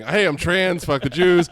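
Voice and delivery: imitating Otis. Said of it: "he does his usual thing".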